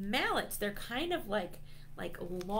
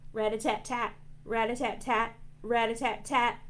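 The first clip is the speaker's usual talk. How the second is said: crisp rhythmic drum syllables; drum rat-a-tat; 2 semitones higher, faster than usual. Pretend. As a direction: imitate a drum roll pattern. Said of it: "the drums go rat-a-tat-tat".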